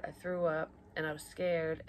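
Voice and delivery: usual speaking voice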